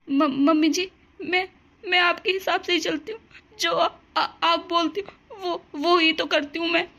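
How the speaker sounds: stammering and sobbing through the words; tearful pleading. Acted. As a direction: plead meekly, voice catching. Bride pleading while crying.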